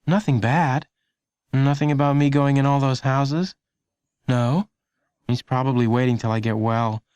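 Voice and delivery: put-on a nervous kid wondering aloud; a hint of a worried boy; young boy Lenny. A narrator's reading.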